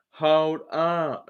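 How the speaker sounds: tentative stoner voice; half-hearted go at a stoner drawl; Nate Diaz impression. Shown as a demonstration. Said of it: "do the stoner kind of voice".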